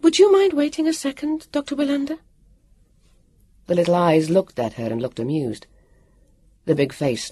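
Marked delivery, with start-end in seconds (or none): 0.0-2.2 said quickly. Acted. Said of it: "Vivian said quickly".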